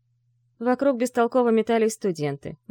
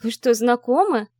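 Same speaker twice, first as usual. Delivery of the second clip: louder, higher surprised outburst; surprised exclaim; 5 semitones higher, 6 dB louder than usual. Acted. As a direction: blurt it in astonishment. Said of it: "удивлённо воскликнула Арина".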